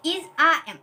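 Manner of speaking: "इज, आ, एम" as separate model words; pronunciation drill. Shown as a demonstration. Teacher answering her own question on reading, pronunciation drill. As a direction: drill "इज, आ, एम", "आ" left an open vowel. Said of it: "क्या पढ़ते हैं".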